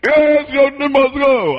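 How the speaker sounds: high, drawn-out protest call; agitator's shout. Acted. Preacher mimics agitators in church, high drawn-out shout. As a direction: call it out like a slow protest slogan. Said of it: "somebody will shout there".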